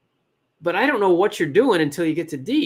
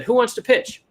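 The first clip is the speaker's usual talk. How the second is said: mock MC call; 9 semitones higher, 4 dB louder than usual. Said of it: "the M C, said".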